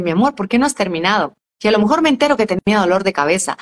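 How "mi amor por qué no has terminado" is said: gentle question to daughter. Shown as a demonstration. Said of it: "conectarme con ella y decirle".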